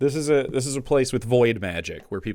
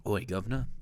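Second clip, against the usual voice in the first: mock British accent; 6 dB quieter, faster than usual. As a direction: toss off a hammed-up British hail. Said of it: "is that British or is that fucking Australian".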